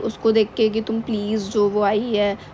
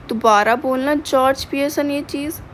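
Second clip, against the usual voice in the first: a touch of savage attitude, pitch higher; mildly savage read-aloud warning, higher; savage retort; 4 semitones higher than usual. Retold or imitated.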